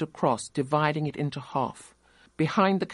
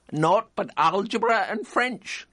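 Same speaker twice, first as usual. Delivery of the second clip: jeering collier; 7 semitones higher, 3 dB louder than usual. A narrator's reading. Collier jeers.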